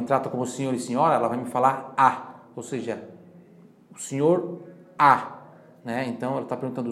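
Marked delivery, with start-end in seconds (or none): none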